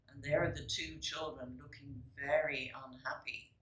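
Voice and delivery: soft whispered aside; hushed aside. A narrator's reading. Reader shows a child the sad picture, whispering.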